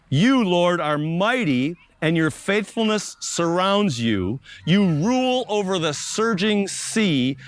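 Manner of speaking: slow, solemn reading of a psalm, first words lifted; scripture reading. Acted. Pastor reads the psalm to the congregation, solemn and slow. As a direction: read it out slowly like a sacred text.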